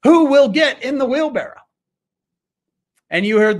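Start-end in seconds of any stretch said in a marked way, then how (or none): 0.0-1.6 high, slow teasing challenge; spring the trap on the crowd; high, slow showman's dare. Retold or imitated.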